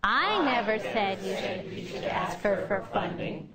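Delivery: emphatic "I", then drop the voice; stress on I. Shown as a demonstration. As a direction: lean hard on "I". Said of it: "emphasize the word that's underlined in blue".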